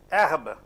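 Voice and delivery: "Herbe" with silent H and open E; French pronunciation demo. Shown as a demonstration. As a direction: say "Herbe" as "ehrb", throaty R. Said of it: "you know these words".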